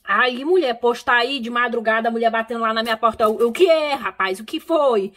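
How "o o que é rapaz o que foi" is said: mild retold alarm, raised and louder; nervous. Answering a knock at the door at dawn, mock nervous. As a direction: act out being startled awake, edgy. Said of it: "E eu já nervoso".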